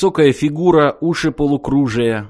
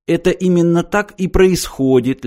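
politely obliging, pitched higher; courteous explaining; 6 semitones higher than usual. A narrator's reading. Martin explains to the stunned trio, courteous tone. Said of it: "любезно объяснил Мартин".

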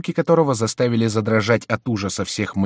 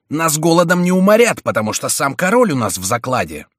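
loud, defiant rallying cry, starting high and settling; bold and decisive; 7 semitones higher, 7 dB louder than usual. A narrator's reading. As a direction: open boldly, then ease down confidently. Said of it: "смело и решительно вскричал Майен". (смело, решительно)

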